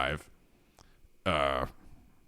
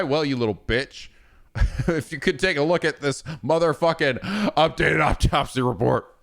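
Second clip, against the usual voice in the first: raging insults quote; 5 semitones higher than usual. Retold or imitated. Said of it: "the things that he's saying".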